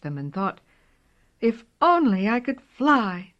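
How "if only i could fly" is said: high little kitten voice, wishful; a tiny cat longing to fly. Acted. Kitten wishes aloud.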